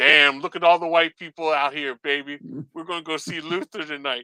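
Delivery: put-on stand-up comedian voice, teasing tone. Retelling how a comedian picked on the audience: imitating a comedian teasing the crowd. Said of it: "and he's going".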